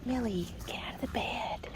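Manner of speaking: soft whispered telling-off; whispered scolding. Real, not acted. To Millie in the garden bed, a whispered scold. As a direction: whisper it sharply at the dog.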